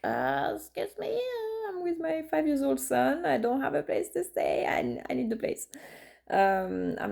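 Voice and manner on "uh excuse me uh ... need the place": indignant plea. Retold or imitated. Pleading with reluctant landlord.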